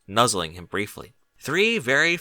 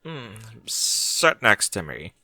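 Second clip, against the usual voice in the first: commanding mare; much slower than usual. A narrator's reading. Barry beckoning Bucky closer, slow sultry command. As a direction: draw Bucky over slowly. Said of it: "Barry commanded".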